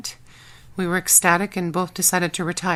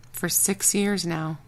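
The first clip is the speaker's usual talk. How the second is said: dreamily; slower than usual. Acted. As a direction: let it drift out slowly, lost in the memory. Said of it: "Talia said dreamily".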